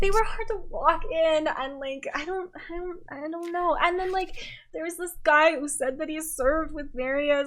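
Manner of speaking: lightly voiced drunk compliment; tipsy girl gushing to a friend in the bathroom. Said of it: "This is girls drunk in the bathroom".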